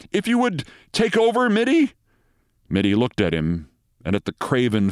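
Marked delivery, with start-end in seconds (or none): 0.1-1.9 high, nervous request rising at the end. A narrator's reading. Doctor begs a colleague to take over, nervously. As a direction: plead nervously in a high pitch. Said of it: "said Renshaw nervously".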